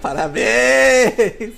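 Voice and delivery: high, loud and slow through laughter; laughing sarcastic congrats. Real, not acted. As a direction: cheer it mockingly while laughing.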